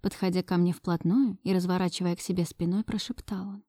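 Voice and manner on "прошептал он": hushed. A narrator's reading. Narration drops to hush.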